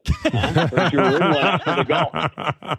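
sly ribbing tone with a chuckle; mock-knowing tease from an old teammate; teasing teammate. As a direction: needle him playfully.

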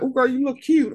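high mimicked gush; gushing compliment. Moviegoers complimenting each other's outfits, high retold gushing.

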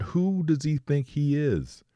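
indignant outburst. Retold or imitated. Preacher voicing David's outrage at Goliath's taunts, indignant. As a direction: let the disbelief rise as you ask it. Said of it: "He's like".

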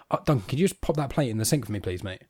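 soft, casual polite ask, trailing down; nicer request. Acted. Stepdad asking Duncan to clear his plate, nicely. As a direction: ask as a small friendly favour. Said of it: "no more effort to be nicer".

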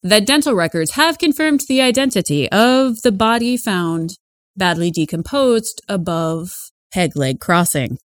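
measured news anchor delivery; radio news read. Acted. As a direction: report it like a local radio newscaster. Reads radio news report.

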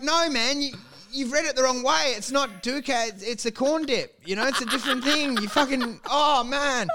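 mock-exasperated, setting a friend straight; exasperated correction. Telling someone they read it the wrong way, mock-exasperated.

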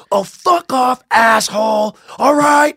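high-pitched mock fury; hammed-up indignant cursing, pitched well up; retold pissed-off woman. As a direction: imitate her angrily refusing to believe it. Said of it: "she just got hella mad, just pissed off".

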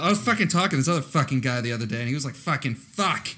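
put-on quick, rambling Boston accent. Friend joining the accent demo, mock Boston accent. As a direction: pile on the Boston swearing. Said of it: "give me the perfect fucking".

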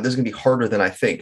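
fast, rushed repeat of the thought; quick anxious echo of the same thought; inner thought, sped up. Retold or imitated. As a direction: rattle it off as the worry builds. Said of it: "I started building on that".

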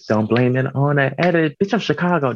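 a touch of a stage delivery on "Don't blame it on that edit."; performed catchphrase. Shown as a demonstration. A drag queen tries out a new catchphrase for her show, lightly performed. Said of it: "I might have to perform that".

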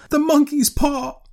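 high, loud, drawn-out frantic cry; wild cry. A narrator's reading. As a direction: shout it slowly in wild revelation. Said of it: "she cried wildly".

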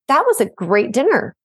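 sincere "That was a great dinner", lightly voiced; grateful. Shown as a demonstration. Demonstrating a grateful comment to the parents. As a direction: say it with simple thanks. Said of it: "those are two totally separate things".

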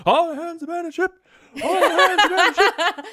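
high, loud captain's shout; shouting abandon ship. Retold or imitated. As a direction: yell the order like a panicked captain. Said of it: "grabbing onto his chair, going".

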